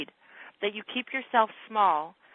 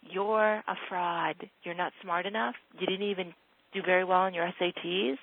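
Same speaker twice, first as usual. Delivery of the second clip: inner critic voice; 2 semitones lower than usual. Retold or imitated. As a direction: lightly voice the nagging doubt in her head. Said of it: "the voice in your head has been trying to whisper this to you".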